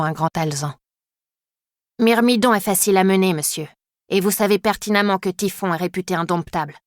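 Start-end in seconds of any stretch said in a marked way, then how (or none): 2.0-6.8 a hint of an English girl insisting in French; mild English accent, insisting. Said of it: "Cet accent n'appartient qu'à une seule pensionnaire".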